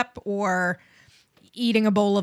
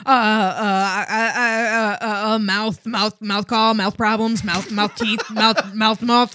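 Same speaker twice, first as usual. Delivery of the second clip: floundering writer; slower than usual. Acted. Plays a panicked writer groping for ideas.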